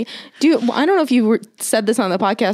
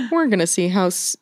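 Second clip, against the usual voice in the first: Shane Smith; 3 semitones lower than usual. Acted. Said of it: "he's always like".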